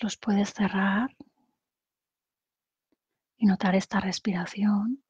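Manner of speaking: calm guided-meditation voice with long pauses; unhurried meditation leader, phrase by phrase. Acted. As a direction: guide them gently through breathing, pausing between phrases.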